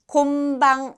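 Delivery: 곤방 said as 곰방; first syllable of 곤방 ends in m; ㅁ-like nasal. Shown as a demonstration. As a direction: close the lips on the ㄴ of 곤방, making an m. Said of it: "이렇게 미음처럼 발음이 됐어요".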